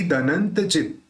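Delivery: दनंत जित ending on a half t; आधा त. Shown as a demonstration. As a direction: stop short on the last t of दनंत जित. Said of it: "त को आधा रखना है". (दनंत जित में त आधा)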